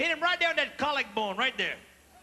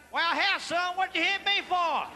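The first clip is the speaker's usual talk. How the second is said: redneck whine; 6 semitones higher, 3 dB louder, slower than usual. Acted. Redneck complains after hit.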